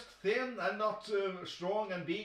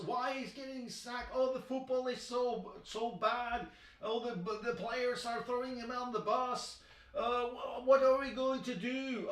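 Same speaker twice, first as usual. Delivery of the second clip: higher, mock panic of fretting fans; mock panicking fans; 4 semitones higher than usual. Mocking United fans panicking after Ole's sacking, higher mock wail. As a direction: ham up the despairing supporters' wail. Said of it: "fans, were screaming".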